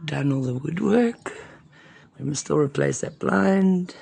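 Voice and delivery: hoarse, breathy voice from bronchitis; a croaky voice, half whispered; raspy whisper. Real, not acted. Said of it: "excuse my voice, I've had a bit of bronchitis".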